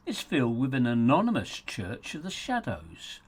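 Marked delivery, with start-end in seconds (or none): 1.7-3.2 breathless hush on church of the shadows; whispered. Acted. Title echoed as an aside.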